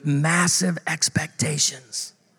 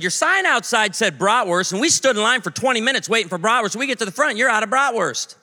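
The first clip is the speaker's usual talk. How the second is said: higher-pitched indignant complaint; frustrated; 6 semitones higher than usual. Retold or imitated. Old man complaining to supposed restaurant staff, mock frustrated. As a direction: imitate a ticked-off customer griping. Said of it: "we're pretty frustrated".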